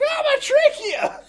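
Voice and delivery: high strained dying wheeze; coughing dying voice. Retold or imitated. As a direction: choke it out like you're dying. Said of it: "in a coughing kind of dying sound".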